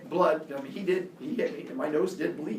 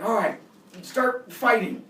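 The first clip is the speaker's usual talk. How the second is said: raised, drawn-out order from onlookers; imitated crowd urging; 5 semitones higher, 4 dB louder, slower than usual. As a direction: egg them on like an impatient crowd. Onlookers urge boys to fight.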